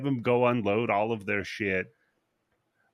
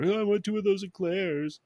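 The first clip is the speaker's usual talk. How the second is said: high, put-on copy of a lady's order; mimicking the lady; 10 semitones higher than usual. Bum copies the wealthy lady at the bakery, high mimicking voice. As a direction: parrot her in a high voice. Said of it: "and mimics her".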